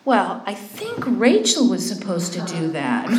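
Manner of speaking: slow, drawn-out mock tattle; mock tattling. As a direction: imitate pointedly blaming a coworker, slowly. Acting out her fault-pointing remark.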